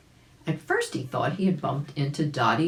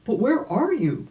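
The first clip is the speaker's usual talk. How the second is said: put-on puzzled old rabbit calling out, louder; 6 semitones higher, 6 dB louder than usual. Old rabbit calls out puzzled to the hidden voice. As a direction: call out, bewildered and searching. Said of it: "the puzzled old gentleman rabbit wanted to know".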